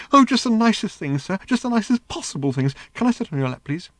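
high, bubbling, eager robot voice; gushing little robot. A narrator's reading. The flying robot begging Ford to sit on his lap, high and gushing. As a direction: gush like a lovesick little machine.

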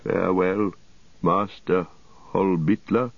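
quiet, laboured dying king; ailing king. Acted. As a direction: speak softly, struggling for breath. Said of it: "he spoke in a quiet voice, though laboured".

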